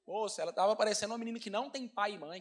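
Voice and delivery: chuckling through the words; laughing. Real, not acted. Pastor laughing while telling the congregation about his daughter's drama. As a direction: laugh as you describe her.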